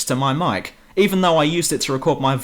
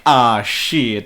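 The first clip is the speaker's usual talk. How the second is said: mock stereotype voice; 2 semitones lower, 3 dB louder than usual. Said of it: "big burly black bloke who says things like".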